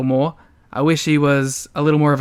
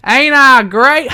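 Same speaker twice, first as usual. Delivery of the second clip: higher, louder, slow cocky "Ain't I great?"; Jeff Jarrett catchphrase; 7 semitones higher, 6 dB louder, slower than usual. Retold or imitated. Echoing the wrestler's catchphrase, cocky and slow. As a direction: crow it like a strutting wrestler. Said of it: "a modest impression of Jeff Jarrett".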